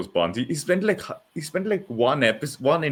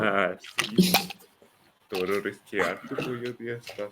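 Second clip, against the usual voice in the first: mock Spanish accent; 5 dB quieter than usual. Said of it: "I can do a Spanish accent".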